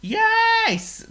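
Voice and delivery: a pig eager to explain; thrilled pig voice; excited pig. Acted. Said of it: "called Oink in great excitement".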